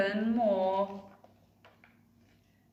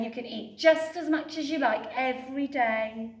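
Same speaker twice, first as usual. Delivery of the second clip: eager offer; 4 semitones higher, 5 dB louder than usual. Acted. Betty offering dragon the pot.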